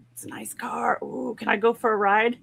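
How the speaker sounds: put-on whispered little boy; hushed, eager child asking; lightly voiced small boy. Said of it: "he was like".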